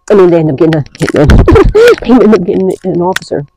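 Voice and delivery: cracking up mid-sentence; helpless giggling as you talk; real laughter. Real, not acted. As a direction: laugh through the correction. Cracks up at own slip.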